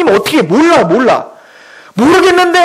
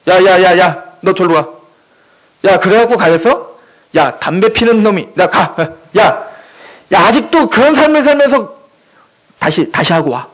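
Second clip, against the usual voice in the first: lower-pitched mock scolding gatekeeper; self-appointed aide turning sinners away, lower-voiced scolding; bossy gatekeeper; 6 semitones lower than usual. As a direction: shoo people off like a petty guard. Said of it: "보좌관이 돼서 예수님 옆에 누가 오면".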